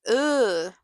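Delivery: drawn-out "ugh" of distaste; disgusted groan. Real, not acted. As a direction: groan with open dislike. Disgusted by Jeremy's whole manner.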